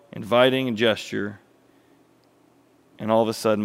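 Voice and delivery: sinking to a hushed let-down; story narration. A narrator's reading. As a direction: narrate the deflating reveal, easing down.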